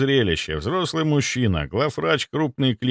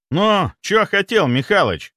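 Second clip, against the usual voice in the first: barked; 9 semitones higher, 4 dB louder than usual. Acted. Necromancer barks at the head doctor from the doorway, loud rude bark. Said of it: "рявкнул он с порога".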